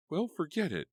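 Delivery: high, loud curt dismissal; annoyed. A narrator's reading. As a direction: cut her off sharply. Karen dismissing friend.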